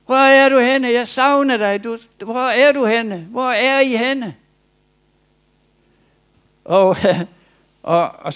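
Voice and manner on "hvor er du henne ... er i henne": high, loud calling across the garden; God calling out. Retold or imitated. God calling for Adam, loud and high. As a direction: call out searching and longing. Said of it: "Så han råbte".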